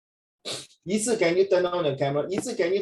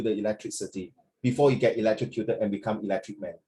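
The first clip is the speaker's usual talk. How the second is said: serious, heavy father announcing bad news; deep heavy dad. Shown as a demonstration. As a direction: read it like a grave father. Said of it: "Very, like, deep".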